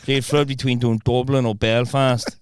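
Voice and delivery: shaky-footing Irish accent impression; Irish accent wandering between regions; attempted Irish accent. Shown as a demonstration. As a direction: have a go at Irish. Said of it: "you try and do Irish".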